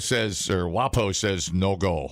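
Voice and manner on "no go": lightly put-on Native American voice; a hint of a Native American accent. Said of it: "he actually speaks in a Native American voice".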